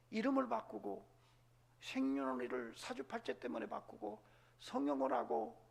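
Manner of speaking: normal talking voice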